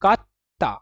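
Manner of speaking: कत्ता said with a short Hindi a and a doubled t; कत्ता, the way Hindi says it, doubled tt; कत्ता clipped, Hindi उच्चारण; Hindi-style katta. Shown as a demonstration. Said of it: "Hindi वाली आ रही है ना बिल्कुल प्रोनाउंसिएशन".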